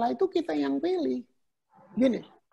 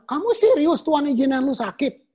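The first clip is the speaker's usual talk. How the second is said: incredulous challenge; 2 semitones higher, 5 dB louder than usual. Retold or imitated. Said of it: "saya bilang".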